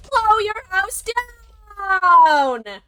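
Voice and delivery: high, very loud, very slow roar; wolf's roaring blow. Acted. Wolf roars at the second pig, high, loud and slow. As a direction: let it rip like a giant gust. Wolf finally blows the house.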